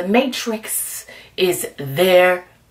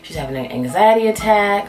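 ladies worried; 3 semitones lower than usual. Retold or imitated. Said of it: "the ladies are like".

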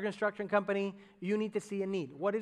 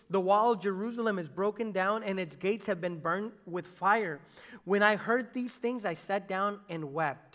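scripture reading. Acted. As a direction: let the verse land heavy. Reads scripture.

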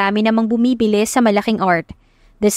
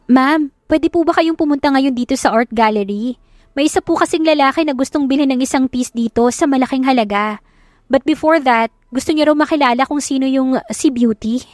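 lightly voiced assistant, pitched higher; a hint of an eager office secretary; polite secretary; 4 semitones higher than usual. Secretary phones her boss about an insistent buyer, politely.

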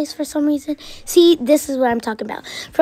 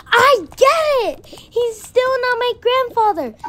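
angry protest; 9 semitones higher than usual. Acted. Girl argues back.

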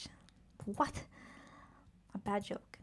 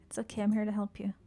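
soothing whisper; faster than usual. Pretend. Soothing the frightened creature.

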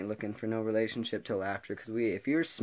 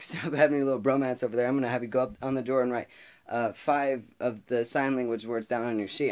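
a bit higher, quick playful order; mock teacher scolding; 3 semitones higher, 4 dB louder than usual. Teacher giving a playful penalty, quick and bright. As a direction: hand out a joke punishment. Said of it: "the teacher, she's like".

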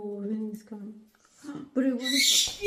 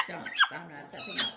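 bird voice; 8 dB quieter, much faster than usual. Retold or imitated. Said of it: "she's like".

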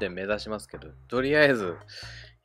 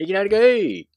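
surprised shout; 10 semitones higher, 15 dB louder than usual. Real, not acted. Sudden miss in game.

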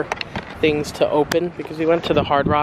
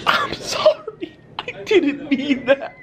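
put-on much higher, slow baby-talk sorry; mock apology; 10 semitones higher, slower than usual. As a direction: coo an apology to the bird. Apologizing to the angry seagull.

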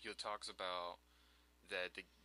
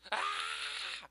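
put-on startled old man; 7 semitones higher, 10 dB louder than usual. Reading old Goron's shocked line.

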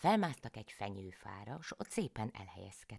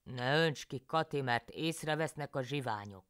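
higher, urgent pleading; higher, urgent husband; husband János; 4 semitones higher, 5 dB louder than usual. A narrator's reading. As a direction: beg her to stop, afraid of robbers. János hushes Kati.

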